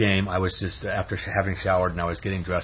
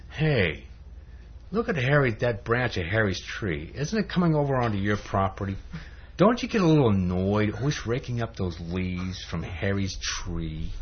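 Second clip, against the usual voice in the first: lightly voiced nagging devil; devil's voice. Devil pointing out Harry's overhanging branch, devil's voice. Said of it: "then the devil says".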